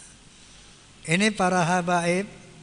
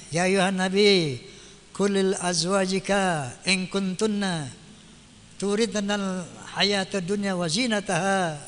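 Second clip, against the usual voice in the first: recited verse. Acted.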